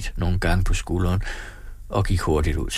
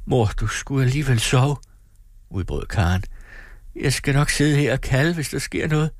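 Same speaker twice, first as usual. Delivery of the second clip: put-on young girl voice; 5 semitones higher than usual. Young daughter pleads with mother.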